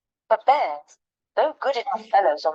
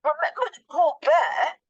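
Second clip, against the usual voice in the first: higher, mouth full; 8 semitones higher than usual. Acted. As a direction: shout through a mouthful. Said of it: "with his mouth so full that he could hardly speak".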